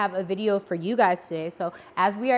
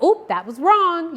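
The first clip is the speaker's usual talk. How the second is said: higher, louder, slowed "Oop"; buzzer-like oop; 7 semitones higher, 6 dB louder, slower than usual. Shown as a demonstration. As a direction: sound the wrong-answer buzzer. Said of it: "kind of like a buzzer".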